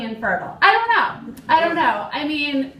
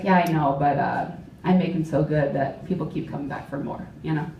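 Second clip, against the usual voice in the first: male coworker; 9 semitones lower than usual. Retold or imitated. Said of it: "And he's like".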